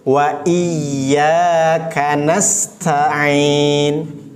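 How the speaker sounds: extremely slow chanted wa iyyaka nasta'in; slow tajwid chant; Quran recitation. Shown as a demonstration. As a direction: draw the phrase out as a recitation.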